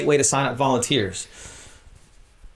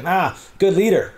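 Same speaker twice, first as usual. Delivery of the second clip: mock lazy praise; 6 semitones higher than usual.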